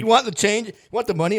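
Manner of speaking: very high, squeaky-pitched mugging victim; hammed-up high-pitched pleading; mock panicked offer. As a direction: play someone anxiously surrendering their cash. Mimics a nervous person handing valuables over.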